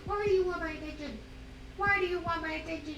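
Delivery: high, quick cooing. Real, not acted. Mother teasing her dog for attention in high baby talk. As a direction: coo it up high and fast at her. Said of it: "I'm in baby talk mode".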